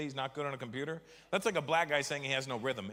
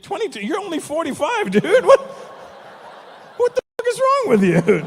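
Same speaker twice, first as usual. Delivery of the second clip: much higher, loud disbelief; shocked outburst; 13 dB louder than usual. Real, not acted. To Manav about marrying young, a loud shocked outburst.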